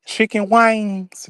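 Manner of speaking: "chicken wings" drawn out slowly, wings like "wangs"; Southern twang. Shown as a demonstration. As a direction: stretch the vowel in "wings" with a country twang. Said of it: "So when I say".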